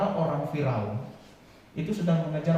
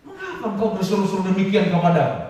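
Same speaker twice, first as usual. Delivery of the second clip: a louder, firm rebuke; rebuking; 2 semitones higher, 5 dB louder than usual. Acted. God rebukes Musa, louder, reproachful. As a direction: scold Musa for his crying out. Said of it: "Tuhan tegur si Musa".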